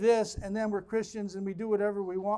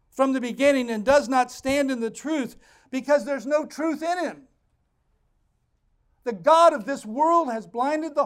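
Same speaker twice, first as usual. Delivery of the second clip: full-force preaching; 3 semitones higher, 6 dB louder than usual. Acted. Pastor hammering the verses home, loud preaching. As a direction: preach it out over the congregation.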